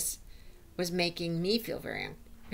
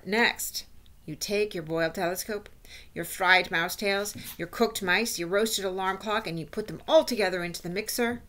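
lightly voiced witch explaining her recipe; instructing witch. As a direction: lightly play a witch lecturing her followers. Voices the Grand High Witch.

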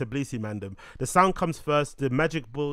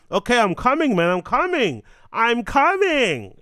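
high, loud call of I'm coming; 9 semitones higher, 6 dB louder than usual. Pretend. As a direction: call it out like you're on your way. Calling out loudly and high.

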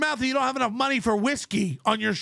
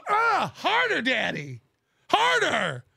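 mock moaning; slower than usual. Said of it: "If anything, I go".

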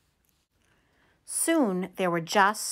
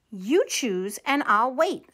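gallantly. Acted. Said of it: "said Big John gallantly".

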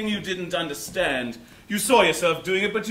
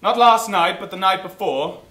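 nursery rhyme; 3 semitones lower than usual. Acted. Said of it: "a simple child's rhyme".

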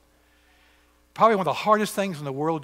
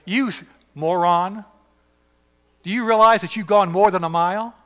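angry soldier; 5 semitones higher, 7 dB louder than usual. Acted.

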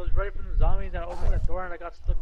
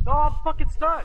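frustrated yell; 10 semitones higher, 3 dB louder than usual. Real, not acted. Trapped in game, yelling.

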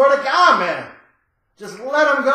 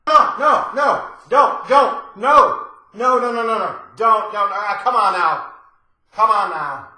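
hammed-up frantic "no no no"; mock panicked pleading; 3 semitones lower than usual. Begging the cat-napper not to hurt the cat, mock panic.

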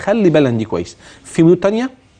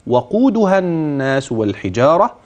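Quran recitation. Shown as a demonstration. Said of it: "أبدأ".

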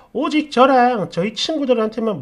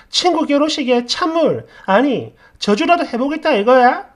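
acted angry accusation; 2 semitones higher, 4 dB louder than usual. Friend angrily accuses over bracelet.

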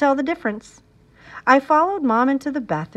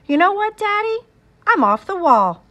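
proud announcement; 9 semitones higher, 5 dB louder than usual. A narrator's reading. Proud child announcing to Dad.

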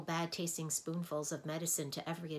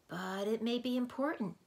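put-on higher, urgent boyish plea; insisting; 6 semitones higher, 4 dB louder than usual. A narrator's reading. Milo urging the Soundkeeper to answer the phone. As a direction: press the point hard. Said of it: "insisted Milo".

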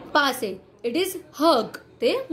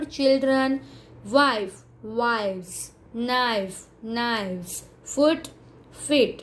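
measured single words with clear gaps; evenly spaced classroom word list; singular-plural drill; much slower than usual. Shown as a demonstration. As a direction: recite the pairs for a class to echo. Reads singular and plural pairs.

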